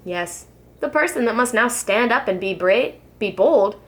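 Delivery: put-on lilting rhyming read-aloud for children; gentle sing-song storyteller reading to kids; storybook narration. A narrator's reading. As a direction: read it like a bedtime picture book. Reads rhyming picture book aloud.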